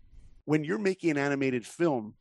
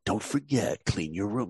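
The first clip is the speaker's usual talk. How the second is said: deep dad voice; 4 semitones lower than usual. Retold or imitated. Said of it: "I abuse the voice too".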